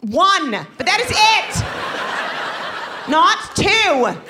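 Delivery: high, loud mock firm mother; firm mom. Mother setting limits for daughter, loud and high. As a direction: lay down the law, laughing. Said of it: "I was like".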